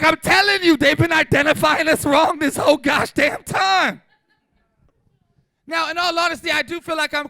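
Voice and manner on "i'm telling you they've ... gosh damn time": loud, laughing and higher; half-laughing protest at full volume; laughing shout. Retold or imitated. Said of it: "I was like".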